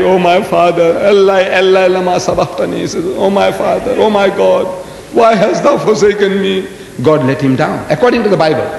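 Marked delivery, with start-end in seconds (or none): 0.0-2.8 mildly raised, intoned appeal; crying out. Retold or imitated. Jesus on the cross to his Father, crying out. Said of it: "he cried". 3.2-6.7 raised, chant-like lament; crying out. Retold or imitated. Jesus on the cross to his Father, crying out. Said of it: "he cried".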